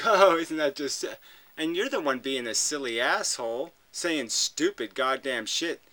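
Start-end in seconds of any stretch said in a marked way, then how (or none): 0.0-1.0 mocking tone. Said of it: "in this mocking tone".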